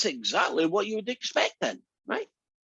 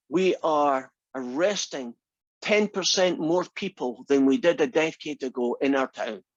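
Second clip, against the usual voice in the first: mock politician. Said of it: "Politician might go on the T V and say".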